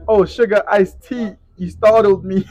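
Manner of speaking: mock prissy voice. Mocking Drake's soft reaction.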